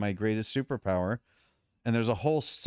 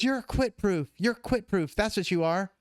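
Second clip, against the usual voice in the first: high, excited imitation of her big reveal; hyperventilating caller; 9 semitones higher than usual. Namer phones client with his brand name, imitated as frantic and excited. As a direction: announce it urgently, pitched way up. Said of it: "my phone rings with her hyperventilating".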